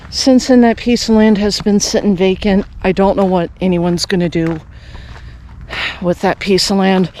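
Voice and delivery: breathless from the climb uphill; talking between heavy breaths. Real, not acted. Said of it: "I'm a little bit out of breath right now".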